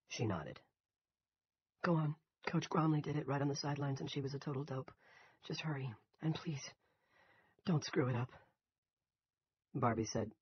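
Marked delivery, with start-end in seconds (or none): 1.8-8.3 Piper's voice. Acted.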